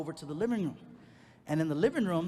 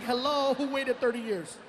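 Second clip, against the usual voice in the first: indignant comeback; 6 semitones higher, 4 dB louder than usual. Retold or imitated.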